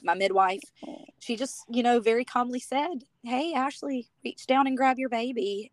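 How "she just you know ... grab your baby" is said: choking up. Real, not acted. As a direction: voice tight with tears. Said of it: "oh goodness, I'm choking up".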